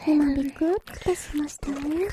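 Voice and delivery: whispering. Acted. Whispered tease.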